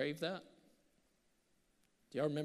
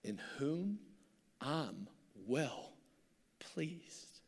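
a lightly voiced, slow, hushed voice from heaven; slowly, softly, hush it down to a whisper; a hint of God speaking from heaven; hushed divine voice; 7 dB quieter, much slower than usual. A narrator's reading. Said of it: "a voice cried out".

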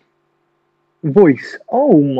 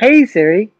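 raised pitch, addressing the assistant; calling Siri; 5 semitones higher, slower than usual. Real, not acted. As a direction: call to wake up the phone. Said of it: "you have to say, "Hey, Siri".

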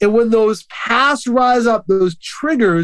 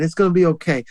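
lower, tender acted comfort; gentle reassurance; 4 semitones lower, faster than usual. God comforting those who have been bruised, gently. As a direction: soothe them in a low, easy voice. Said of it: "Really gentle. He's saying".

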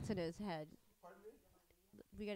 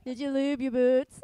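loud, laughing through the words; laughing question; 12 dB louder than usual. Real, not acted. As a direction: ask it while cracking up.

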